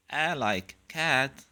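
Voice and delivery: slow fronted "A" as in cat; soft a. Shown as a demonstration. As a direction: stretch "A" like the a in cat, slowly.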